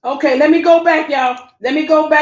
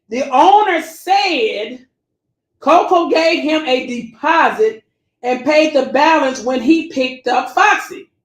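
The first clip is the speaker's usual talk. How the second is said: slow, deliberate reading; slow read-aloud for the audience; read real slow; slower than usual. Shown as a demonstration. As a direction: drag each word out so they hear it. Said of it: "I'm gonna read it real slow".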